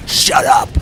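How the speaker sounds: loud, harsh whispered demon snarl. Retold or imitated. Mocking the film's demon as it tells the Warrens off, whispered snarl. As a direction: rasp it out like a cheap movie monster. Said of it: "and he says".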